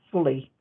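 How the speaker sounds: "fully" with f for PH; pronunciation demo. Shown as a demonstration. The speaker correcting herself on the term, "fully" said with f. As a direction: model "fully" as two syllables starting with f. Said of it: "it's pronounced fully".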